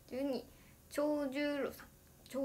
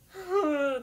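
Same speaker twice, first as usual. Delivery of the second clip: mock sigh; 5 semitones higher, 9 dB louder than usual. Retold sigh while waiting.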